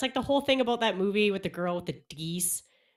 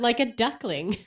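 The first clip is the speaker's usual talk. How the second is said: louder, clearer repeat for a listener who missed it; 5 semitones higher, 6 dB louder, slower than usual. Real, not acted. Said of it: "excuse me?".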